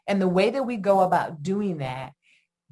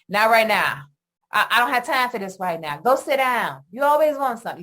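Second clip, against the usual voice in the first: put-on curt, irritated dismissal of a child; impatient brush-off; 3 dB louder than usual. Busy parent brushing off a needy child, mildly irritated. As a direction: snap at the kid to go away, mildly. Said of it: "instead of saying".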